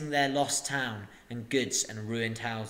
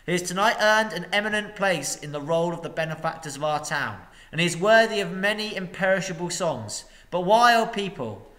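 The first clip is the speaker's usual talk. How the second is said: pompous master; 5 semitones higher, 5 dB louder than usual. A narrator's reading. Master's speech.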